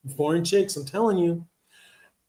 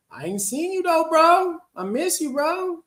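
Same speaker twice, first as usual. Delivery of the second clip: excited; 13 semitones higher than usual. Real, not acted. Misses a friend from the chat.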